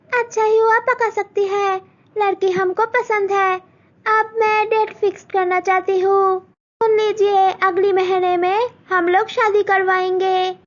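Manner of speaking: high, demanding in-law voice; groom's mother testing Malti's cooking; haughty groom's mother. Acted. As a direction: quiz the bride condescendingly. Groom's mother fixes date.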